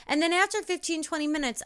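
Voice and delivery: "twenty minutes" pitched high; lifted repeat. Shown as a demonstration. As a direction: start "after fifteen" high, then come down.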